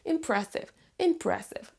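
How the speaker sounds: IMPRESSIVE stressed on PRESS, falling end; stress on second syllable. Shown as a demonstration. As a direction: model im-PRESS-ive for repetition. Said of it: "copier l'intonation et la prononciation".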